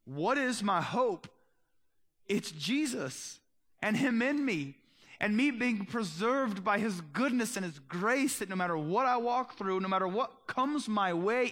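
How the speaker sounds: slow, stressed preaching voice that builds on "Jesus"; rising preaching. Acted. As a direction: preach it with conviction, slowing down. Preaching at full force.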